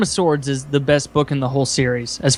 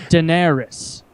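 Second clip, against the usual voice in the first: name set apart as a chapter title; audiobook chapter announcement; slower than usual. Retold or imitated. Imitating the narrator between chapters, announcing the character. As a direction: announce it as a heading, standing alone. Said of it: "and so it goes".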